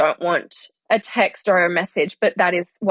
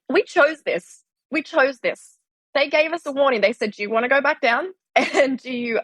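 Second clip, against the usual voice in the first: raised, playful retold voice; lightly voiced joking souls; a hint of mock solemn pledge; mock heavenly chorus; 5 semitones higher than usual. Joking retelling of choosing this life.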